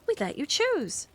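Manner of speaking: offering. Acted. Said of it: "offered Carrie".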